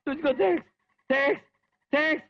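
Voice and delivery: thanking God in joy; giddy relief. Acted. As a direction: gush with relief. Relief at being alive.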